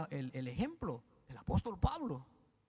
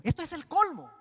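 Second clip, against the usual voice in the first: loud, high cry of disbelief; exasperated exclamation; 8 semitones higher, 6 dB louder than usual. Real, not acted. Preacher to the congregation, exasperated loud outcry. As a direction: throw up your hands in disbelief.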